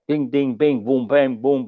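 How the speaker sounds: mock karate noises, ding and boom; karate sound effects. Mocking Elvis's karate moves with mild sound effects. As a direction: playfully mimic kung fu sound effects. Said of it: "always doing that karate crap".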